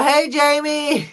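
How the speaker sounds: high, drawn-out hello; singsong greeting. Real, not acted. Host breaks off to greet Jamie, singsong. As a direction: call out a slow, happy hey.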